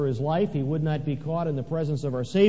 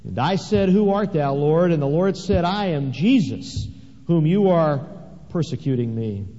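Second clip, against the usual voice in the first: preaching at full force. Acted. Preaching Paul's testimony at full force.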